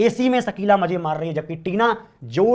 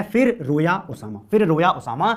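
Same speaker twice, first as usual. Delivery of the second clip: slow, spaced फिर रोया Osama; slow mnemonic. Shown as a demonstration. Teacher giving a memory trick to the class, slowly. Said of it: "दोबारा सुनेंगे".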